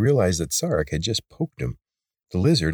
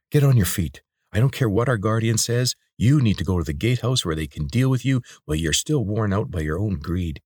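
commanding; 4 semitones higher than usual. Acted. Lena orders him up.

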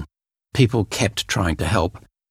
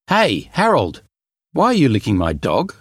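friend calling out; 4 semitones higher than usual. Acted. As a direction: call out, puzzled. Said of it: "Tim came up to Harold".

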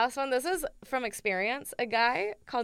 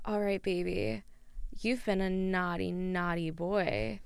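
sultry voice; 2 semitones lower, 5 dB quieter than usual. Acted. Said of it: "is that good".

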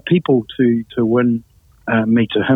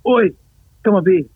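higher-pitched mild mock yell; retold yell; 4 semitones higher than usual. Host calling the pastor up the stairs, retold yell. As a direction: imitate calling someone up, without full volume. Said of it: "I yelled out".

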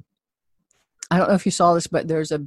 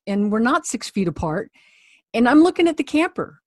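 firm but polite; 4 semitones higher than usual. Retold or imitated. Firm request to wait outside.

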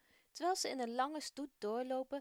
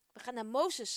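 shout; 6 dB louder than usual. Acted. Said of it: "schreeuwt de man".

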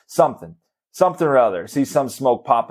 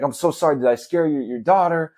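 imitated apology, pitched higher; apologetic; 4 semitones higher than usual. Leaf-blower guy asks about scaring daughter, apologetic. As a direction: play the sorry stranger, voice lifted. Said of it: "he's, like, so apologetic".

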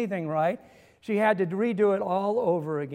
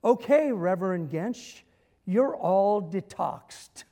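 a light imitation of a cheery hygienist, slowing on "all detoxed"; mildly sing-song, like ending a cleaning session; slower than usual. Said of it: "in a very cheery voice".

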